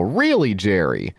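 a rising "Really" then a dropped "Jerry"; card-read yell of disbelief; mock yell at Jerry. Shown as a demonstration. Reading the card's yell at Fat Jerry, mock exasperated. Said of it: "throw it on the table and yell".

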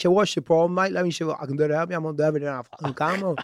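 fast, mumbled fake English accent; mock English accent. Host keeps up a bad English accent on the caller. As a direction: rush a shaky Brit voice, swearing. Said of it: "I'm loving the accent".

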